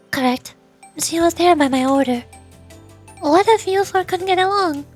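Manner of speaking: lightly voiced, assured strategist; understated poise while laying out a scheme; composed, calculating president. President explaining her plan to Sensei, lightly voiced composure.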